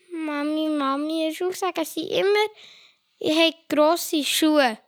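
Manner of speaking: a hint of a complaining little boy; child voice. Boy complaining about school to his mother, a hint of kid voice.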